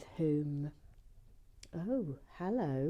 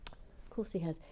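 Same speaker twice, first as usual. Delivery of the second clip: whispered; 7 dB quieter than usual. Real, not acted. Repeat as whisper.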